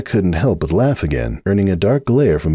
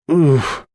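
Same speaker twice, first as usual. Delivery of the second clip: groan; 8 semitones higher than usual. Acted. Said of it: "Applejack groaned".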